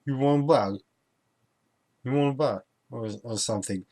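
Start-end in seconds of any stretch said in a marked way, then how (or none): 0.0-2.6 a hint of Scottish accent, higher and louder, mumbled; imitating Scottish shop clerk. Scottish cashier offering a bag, lightly imitated accent. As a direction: mimic the mumbled Scottish "You want a bag?". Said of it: "It was like".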